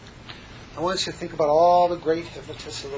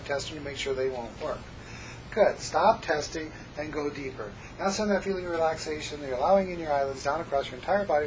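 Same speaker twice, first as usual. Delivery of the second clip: hypnosis script; faster than usual. Acted.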